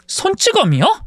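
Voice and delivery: sharp rising gasp of shock; can't believe what she hears; shocked disbelief. Acted. Shocked at abuse news.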